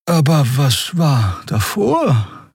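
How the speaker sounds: high, bright creature voice; a small winged creature prying gently; curious Xea. A narrator's reading.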